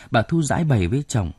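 ordinary delivery, nothing marked

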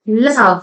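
लव्ह with a short uh vowel, not loh; लव्ह rhymes with glove, no long o; लव्ह said luv; love, not long o. Shown as a demonstration. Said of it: "हे exception आहे, इथे लो होत नाही".

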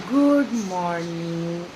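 very slow, loud good morning; long, loud drawn-out vowels; drawn-out greeting. Real, not acted. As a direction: stretch the greeting right out.

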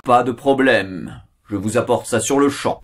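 slow genie voice. Acted. Genie answers the wish.

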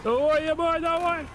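frantic yell, high and loud; panicking gamer. Real, not acted. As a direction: shout at the screen in a panic. Gamer yelling at game in panic.

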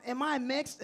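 slightly high imitation of a toddler; little son's question. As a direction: ask like a curious two-year-old. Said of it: "my son asks me questions".

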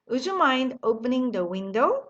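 very slow, every word laid out; slow model sentence. Shown as a demonstration. Teacher modelling the phrase slowly for the class. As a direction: spell it out slowly for learners to copy. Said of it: "한 번 더 하죠".

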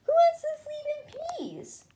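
mock the very idea; scoffing. A narrator's reading. Skipito scoffing at resting.

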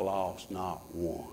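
he's not lost not one said low, soft and slow; hushed, intimate reassurance; quiet and slow. Acted. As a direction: sink the words down gently. Same line dropped quiet.

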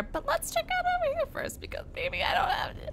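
hushed sneaky whisper. Real, not acted. Sneaking in dark cave.

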